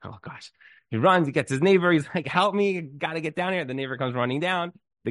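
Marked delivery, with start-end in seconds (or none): 0.0-0.5 hushed, lower mock dismay; quiet dismay. Man whose car won't start before his meeting, quietly dismayed. 2.2-3.7 higher-pitched mock panic; acted urgent plea. Man with stalled car begs his neighbor, urgent plea.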